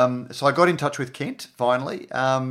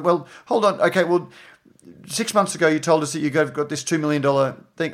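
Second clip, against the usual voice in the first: louder, higher pressing hold on; pressing challenge; 4 semitones higher, 5 dB louder than usual. Retold or imitated. Reporter pressing Kent on the phone, louder. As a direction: push back hard on his story.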